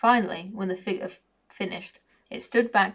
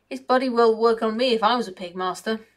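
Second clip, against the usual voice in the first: loud; 3 semitones higher, 5 dB louder than usual. Acted. Servant insists.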